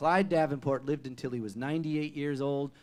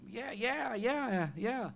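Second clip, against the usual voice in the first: high, eager stream of yeahs; eager yes; 7 semitones higher, much slower than usual. Retold or imitated. Answering the fiddler, eager to be asked to jam. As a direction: bounce the yeahs up like a hopeful kid.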